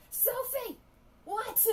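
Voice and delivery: yelled high and loud; loud sharp voice. Real, not acted. Yelling to friend.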